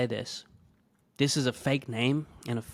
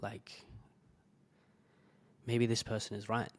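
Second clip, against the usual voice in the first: much softer, near-silent self-doubt; defeated inner thought; 9 dB quieter than usual. Retold or imitated. Doubting himself after the email, hushed defeated thought. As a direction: let it fall away to almost nothing. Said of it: "I was just thinking".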